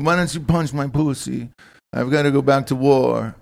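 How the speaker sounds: lightly hammed-up Israeli accent; put-on Israeli accent. Playing a soldier on a date, in a put-on Israeli accent. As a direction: do a rough mock Israeli accent. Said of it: "you know, accent is, it is".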